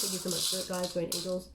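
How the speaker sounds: softly murmured aside; quiet thanks. Real, not acted. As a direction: say it under your breath. Quiet thanks to spirit guides.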